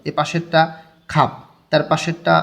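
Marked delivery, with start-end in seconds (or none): 1.1-1.3 "খাপ" closed on a single p; pronunciation demo. Shown as a demonstration. Teacher reads out the next double-batchim example, demonstrating "খাপ" with one final p. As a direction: model "খাপ", only the first final consonant sounded. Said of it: "উচ্চারণটা আমি একবার করা দিই".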